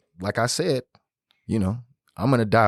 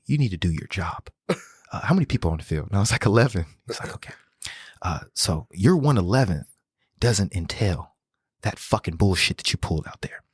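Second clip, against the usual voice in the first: calm coach voice; 2 semitones lower than usual. Retold or imitated. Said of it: "he said it just calm like this".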